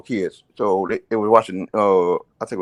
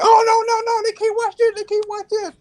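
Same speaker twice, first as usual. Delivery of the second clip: mock teacher voice. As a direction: whine it like a prissy substitute teacher. Teacher objects again.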